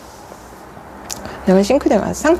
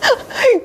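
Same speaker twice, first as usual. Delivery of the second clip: high laugh. Real, not acted.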